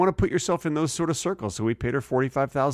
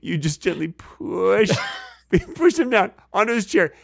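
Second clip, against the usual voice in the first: 1 laughing; 6 semitones higher than usual. Real, not acted. Laughing while acting it out.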